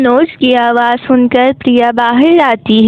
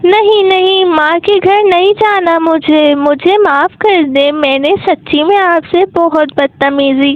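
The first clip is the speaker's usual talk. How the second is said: frightened pleading; 3 semitones higher than usual. Acted. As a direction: beg not to be sent away. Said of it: "प्रिया बहुत डर जाती है".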